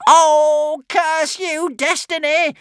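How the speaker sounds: high, loud crazed witch voice; cursing witch. Acted. The witch cursing her luck, high and crazed. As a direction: spit the curse like a mad witch. Witch shakes fist at heavens.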